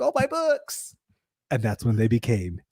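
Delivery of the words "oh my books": dropped books dismay. Retold or imitated. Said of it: "and then you're like".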